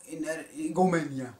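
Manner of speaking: ordinary talk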